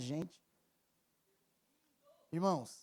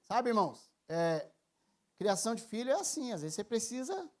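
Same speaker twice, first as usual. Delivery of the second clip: ordinary talk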